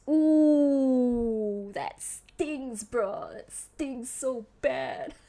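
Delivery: slow, whiny fake sob, hammed-up; mock crying. To chat, after a friend's snub, in mock crying. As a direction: pretend to be wounded, dragging the words. Reacting to being snubbed.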